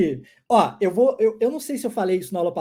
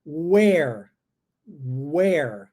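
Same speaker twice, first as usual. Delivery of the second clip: slow, careful English sentence; slow model sentence; 6 semitones lower, much slower than usual. Shown as a demonstration. Teacher slowly modelling the question for the class. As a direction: say it slowly for the students. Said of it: "Agora uma pergunta".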